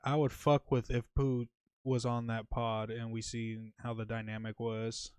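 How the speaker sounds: talking while high. Real, not acted. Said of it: "I'm kinda too high for this".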